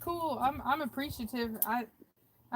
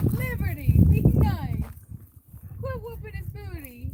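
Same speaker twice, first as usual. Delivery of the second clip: loud, higher warning to the dog; scolding call; 7 semitones higher, 10 dB louder than usual. Real, not acted. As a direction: call her off firmly.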